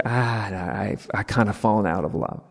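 low, soft mock resignation; lightly acted loss of interest; deflated. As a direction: give up half-heartedly, dropping pitch and volume. Acting an inconvenienced lover losing interest.

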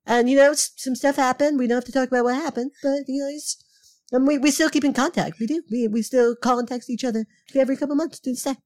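a hint of a rambling politician; Donald Trump. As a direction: loosely imitate Trump, hedging and repeating. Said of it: "I don't think you're doing a Trump impression".

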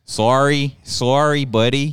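attempted Canadian accent. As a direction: try a light Canadian accent. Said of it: "Can you do a Canadian accent?".

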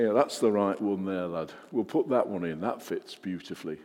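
put-on a light, half-hearted northern English accent as a stonemason; a knowing northern builder picking stones, accent only sketched; badly faked northern English accent; lousy northern accent. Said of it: "Is that a lousy northern accent?".

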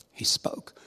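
whispered, breathy and soft; a quiet awed echo; hushed repeat. Shown as a demonstration. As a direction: let it drop to a reverent whisper.

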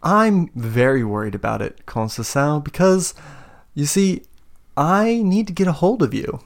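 lightly voiced villain feigning worry; villain's mock concern. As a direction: pitch climbing into a high coo. Villain taunts captive-to-be over fire.

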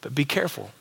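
gentle warning. Retold or imitated. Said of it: "Jesus kinda leaning in and telling you".

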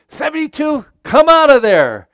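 angry football coach calling out; coach yelling. Retold or imitated. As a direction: bark the number off the field. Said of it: "but he said".

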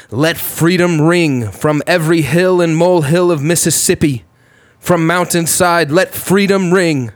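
a hint of King's soaring oratory; MLK impression. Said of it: "That's our boy M L K".

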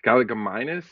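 Galligaminus said as gal-uh-guh-MY-nus, rising like a question; unsure mispronunciation. Real, not acted. Podcaster guessing a dinosaur's name, Galligaminus as gal-uh-guh-MY-nus, unsure. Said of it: "I can't say the word".

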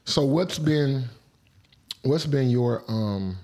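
talking with something in mouth; mouth full. Real, not acted. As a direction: speak around a mouthful. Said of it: "I got something in my mouth".

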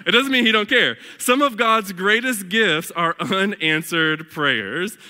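put-on emphatic country-accented quote, slowing down; amateur attempt at a country twang. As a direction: finish the lyric in a country accent. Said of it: "I can't even do that twang".

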